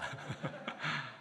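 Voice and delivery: soft, brief laugh; chuckle. Real, not acted. Missionary admitting he visits too often, soft chuckle. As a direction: chuckle quietly to yourself.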